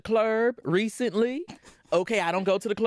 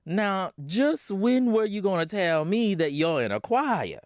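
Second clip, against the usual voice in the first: stern mother lecturing, slowed down; Florence lecturing. Acted. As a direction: lay down the law like a tired mom.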